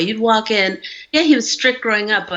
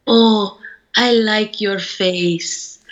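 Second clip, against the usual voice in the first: put-on very slow, faint old father's voice; frail old dad; much slower than usual. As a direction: lightly voice her ninety-year-old father, barely able to talk. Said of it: "He could barely talk".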